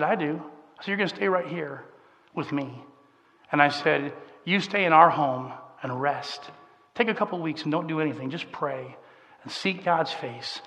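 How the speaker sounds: soft, steady comfort; gentle reassurance. Retold or imitated. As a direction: retell calming a distraught brother, hushed and unhurried. Comforting his distraught brother in story.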